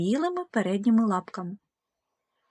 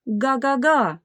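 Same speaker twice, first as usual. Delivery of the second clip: car honk; 4 semitones higher, 3 dB louder, slower than usual. Acted. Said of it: "сказав автомобіль".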